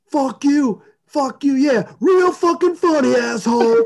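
mock angry yell. Charlie Sheen cursing at teammate in fight, mock furious. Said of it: "Charlie Sheen is just going".

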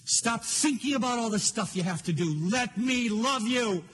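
lightly voiced God, insistent and loving; earnest divine plea, drawing out key words. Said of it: "I can feel him saying".

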